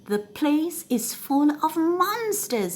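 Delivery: high, breathless terror; panicked robber just escaped; gasping in fright. Acted. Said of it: "he gasped".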